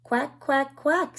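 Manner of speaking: playful ducklings calling out; ducklings quacking. Acted. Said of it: "say the ducklings".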